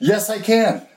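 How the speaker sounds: shrill, high-pitched, exasperated angry yell. Retelling arguing with a child behind a tree who won't come inside, retelling an angry yell. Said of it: "And I'm yelling at her".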